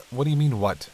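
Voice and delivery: can't believe he's asking; alarmed disbelief. Acted. Vampire scolding Hunter for ignoring his shivering, incredulous.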